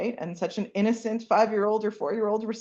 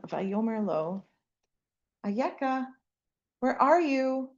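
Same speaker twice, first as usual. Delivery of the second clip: soft gentle tone; 3 semitones higher than usual. Acted. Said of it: "such a soft, gentle tone".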